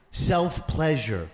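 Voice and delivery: slow, careful delicate term; slow, hushed clinical euphemism; drawn-out term. Retold or imitated. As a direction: stretch the word out gingerly.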